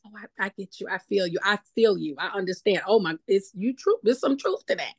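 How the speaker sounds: nod along, reassure him you get it; sympathetic agreement. Retold or imitated. Pastor imitating how he answers a skeptic, gently agreeing. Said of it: "I'm doing the sympathetic".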